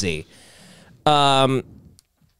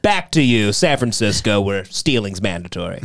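news reporter parody; 4 semitones lower than usual. Retold or imitated. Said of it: "She goes".

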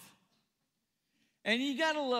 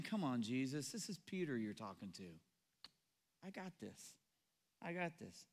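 cocky Peter; 9 semitones lower, 12 dB quieter than usual. Retold or imitated. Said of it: "it's like he's saying".

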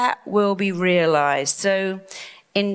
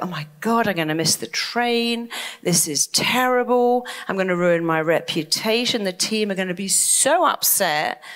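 mock panic. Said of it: "I thought".

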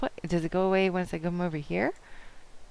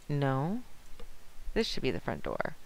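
ordinary talk

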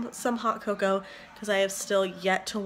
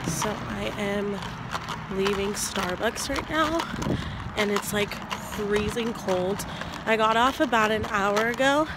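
sick voice. Real, not acted. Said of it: "Sorry, my voice is really terrible 'cause I'm still kind of sick".

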